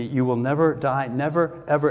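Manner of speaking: "never" stressed each time, then "ever"; firm, insistent repetition of "never"; emphatic promise. Retold or imitated. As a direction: drive home "never, ever" word by word. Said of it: "It's emphatic in the original language".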